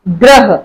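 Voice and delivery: "ग्रह" with र right along with the ग; र joined to ग. Shown as a demonstration. Teacher models padena र for students, र joined to ग. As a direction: say "ग्रह", blending ग and र at the start. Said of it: "ग के साथ ही र का sound".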